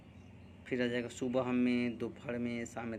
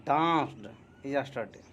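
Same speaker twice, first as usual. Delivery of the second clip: slow dictation; much slower than usual. Shown as a demonstration. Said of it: "अब क्या बनाएंगे".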